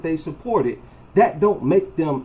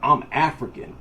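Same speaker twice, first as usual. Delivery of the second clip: laughing mockery; 3 semitones lower than usual. Mocking quote with laugh.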